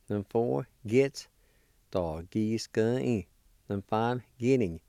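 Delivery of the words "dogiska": Agisti said slowly and clearly; slow careful pronunciation. Shown as a demonstration. Teacher repeating the word for learners, slow. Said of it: "I'll pronounce these words one more time".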